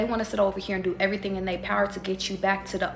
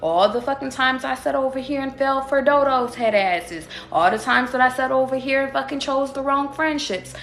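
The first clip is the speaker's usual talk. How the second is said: voicing the shadow self; 4 semitones higher, 3 dB louder than usual. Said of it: "It's like".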